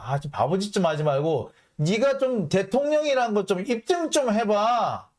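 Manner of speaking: mock a scolding, stretching the final demand; exasperated demand. Foreign press scolding the president, exasperated demand.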